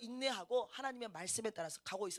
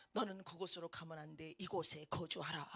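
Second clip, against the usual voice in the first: voice of God; 7 semitones lower, 10 dB quieter than usual. Retold or imitated. God's voice quoted in dream.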